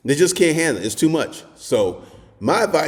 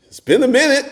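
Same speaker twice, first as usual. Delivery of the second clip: higher, a bit louder imitated woman; woman's rueful admission; 13 semitones higher, 3 dB louder than usual. Retelling the blonde saying nobody approaches her, higher imitated voice. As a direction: give her a sheepish confession. Woman admits long dry spell.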